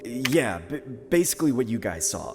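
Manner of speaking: hesitant, feigned casualness; nonchalant. Acted. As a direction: play it down with small stumbles. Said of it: "I respond as nonchalantly as I can".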